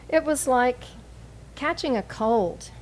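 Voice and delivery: measured poem recital with pauses between lines; poetry reading. Acted. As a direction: read each image evenly, letting it settle. Begins reading third poem.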